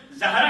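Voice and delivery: زہرا said as "Zahra", open a after z; careful a-vowel in زہرا; correct pronunciation. Shown as a demonstration. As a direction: say زہرا with a clear short a, "ZA-hra". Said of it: "اس کا صحیح pronunciation".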